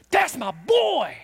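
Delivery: high, drawn-out proud dad holler; proud cheer. Acted. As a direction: cheer your kid's home run, stretching the words. Proud parent cheering a home run.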